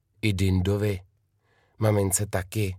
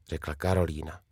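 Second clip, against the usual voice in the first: usual speaking voice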